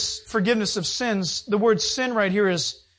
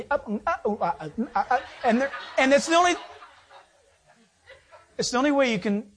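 laughing; 3 semitones higher, faster than usual. Real, not acted. Laughing at lying news.

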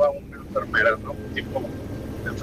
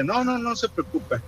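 much higher, lightly placating voice; imitated reassurance; 10 semitones higher, 4 dB quieter than usual. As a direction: imitate someone soothing a worried mother. Imita a quien tranquiliza a mamá. (imitando a alguien que tranquiliza)

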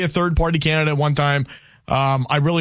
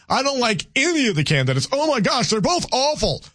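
higher, exasperated imitation of a fed-up voter; mocking voter's complaint; 5 semitones higher than usual. Host imitating voters who dislike both candidates, mock exasperated. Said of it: "a lot of people will use this line".

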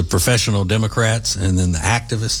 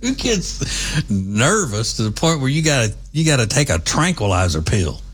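mock-shocked, pitch leaping far up; hammed-up astonishment; incredulous disbelief; 5 semitones higher than usual. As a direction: act the bewildered kid, squeaking in disbelief. Child voiced in retold story.

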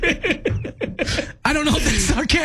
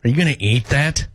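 lower, understated sarcastic question; 5 semitones lower than usual. Pretend. Co-host demonstrates with facial expressions, sarcastic. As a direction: ask it with dry sarcasm.

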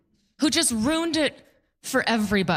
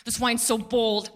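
pompous wine snob. Retold or imitated. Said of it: "He's like".

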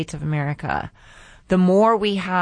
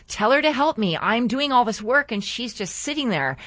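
higher-pitched, mildly indignant mock grumble; retold upset complaint; 5 semitones higher than usual. Martha complaining to Jesus about her sister, mildly upset. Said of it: "she got all upset inside".

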